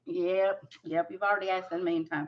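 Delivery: talking while chewing gum; quick words round a wad of gum. Real, not acted. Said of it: "I forgot I had gum in my mouth".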